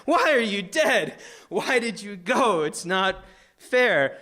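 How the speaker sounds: mild retold scream. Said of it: "I'm screaming at my dead friend".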